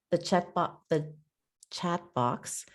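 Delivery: real halting stumble with false starts; fumbling for the right word; stumbling over words. Real, not acted. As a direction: trip on the words, stop and restart. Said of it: "stumbling over my words".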